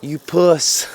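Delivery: high, loud yelled taunt; re-enacted shouted jeer; imitating a yell. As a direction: yell it like a cop out of his car. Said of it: "he yells out of his car".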